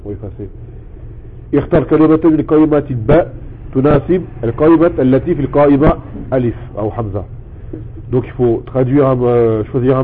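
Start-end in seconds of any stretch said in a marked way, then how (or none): 1.5-7.2 fast Arabic reading of the exercise; reading instructions aloud. Shown as a demonstration. (lecture rapide de la consigne)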